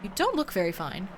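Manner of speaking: normal talking voice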